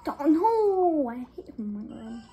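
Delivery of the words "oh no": laughing yell. Real, not acted. Another mistake.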